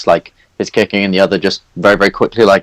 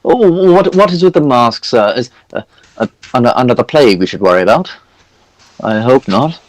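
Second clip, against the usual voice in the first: put-on high, fussy old priest voice; jolly priest NPC; 5 semitones higher than usual. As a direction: play a pompous, chatty cleric. High priest questions the cleric.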